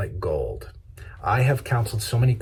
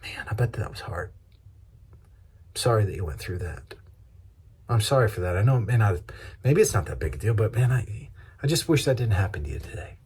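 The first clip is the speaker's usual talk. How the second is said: sympathetic comfort; faster than usual. Shown as a demonstration. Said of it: "When you hear the low, you say".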